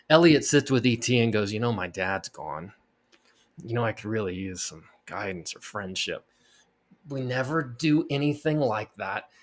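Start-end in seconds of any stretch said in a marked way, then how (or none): 1.5-6.2 lower, softer mock-earnest kid confession; lightly voiced corny movie boy; mock sappy line. Boy confides in the alien, low soft mock-sincere voice. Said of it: "in a terrible version of this movie".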